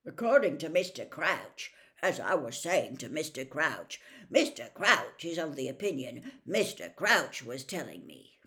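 lightly mocking, pompous impersonation; Percy. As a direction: mimic someone self-importantly quoting his boss. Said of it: "Just don't get him on the subject".

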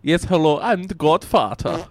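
thick put-on mafia boss accent; Godfather voice. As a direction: play a mob boss caller. Caller plays Godfather character.

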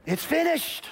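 brief mock Middle Eastern accent; light Middle Eastern accent. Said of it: "he's a Middle Eastern man".

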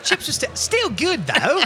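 imitating the reviewer through laughter; mock reviewer. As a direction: squeak it out mocking the reviewer. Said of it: "He's like".

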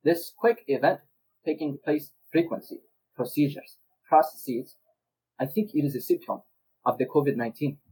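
put-on deliberate speech in a wandering foreign accent; British act slipping into another accent; put-on accent that changes nationality; drifting foreign accent. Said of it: "you're changing nationalities".

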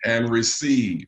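slow, deliberate teaching call; call-and-response lead. Real, not acted. Preacher to congregation, repeat after me, slow call. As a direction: draw it out for them to repeat.

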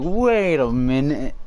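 slow, drawn-out wait; retold protest. Teasing friend quoting Malachi, slow mock protest. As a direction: drag it out like a stalling objection. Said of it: "Malachi was like".

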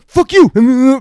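sudden high yelp of an insult; imitating a drunk friend yelling at the sheriff through a crack; mock shouted insult. Link insults cop again.

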